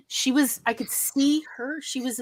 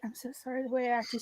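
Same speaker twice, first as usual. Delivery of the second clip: sheepish apology; 11 dB quieter than usual. Retold or imitated. Apologizing to the nurse afterward.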